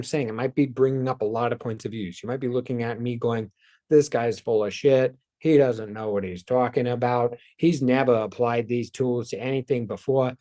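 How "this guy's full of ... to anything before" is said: put-on a light New York Boston accent on an imagined critic; mock New York Boston sneer, lightly done. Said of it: "this is apparently my New York Boston accent".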